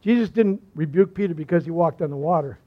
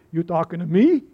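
a light De Niro tough-guy challenge; half-playful tough-guy taunt in a De Niro voice; Robert De Niro impression. Preacher voicing Peter as De Niro at the congregation, lightly mock-tough. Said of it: "doing his best Robert De Niro".

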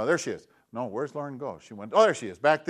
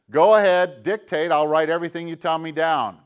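computer voice; 5 dB louder than usual. Retold or imitated. Computer program voice speaking.

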